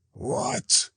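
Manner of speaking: high yelp of envy; a sudden high cry; fire dog cries out. A narrator's reading. The envious fire dog cries out at Zarathustra, high yelp. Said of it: "cried he".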